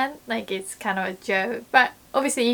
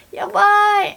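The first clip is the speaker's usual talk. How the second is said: much higher, loud exclaim; excited yabai; 11 semitones higher, 9 dB louder than usual. Retold or imitated. Someone exclaiming to a friend, much higher and loud. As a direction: blurt it out. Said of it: "someone says".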